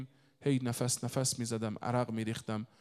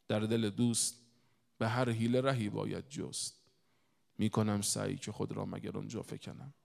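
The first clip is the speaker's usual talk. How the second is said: poem recitation. Acted. Recites a Persian couplet.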